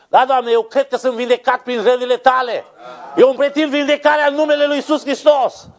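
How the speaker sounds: high, sustained pulpit cry; fervent declaring prayer. Real, not acted. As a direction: claim each promise aloud at full pitch. Models fervent prayer of claiming. (rugăciune strigată, plină de ardoare)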